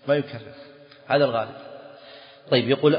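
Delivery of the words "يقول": normal talking voice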